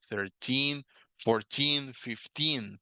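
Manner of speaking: put-on "Thirteen", "fourteen", "fifteen" each stressed on the final "-teen"; -teen endings clearly stressed. Shown as a demonstration. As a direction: lean on "-teen" in every number. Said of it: "la entonación va al final de la palabra".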